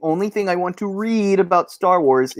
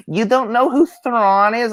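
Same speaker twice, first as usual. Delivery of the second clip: mock shocked gasp; 7 semitones higher than usual.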